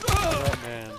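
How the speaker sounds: high, loud exasperated outburst; exasperated exclamation. Real, not acted. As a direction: blurt it out in disbelief. Reaction to enemy player.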